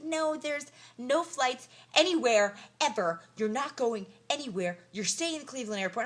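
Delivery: hammed-up airline clerk saying no; mock refusing clerk. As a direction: play the desk woman shutting them down. Voicing the airline desk woman's refusal.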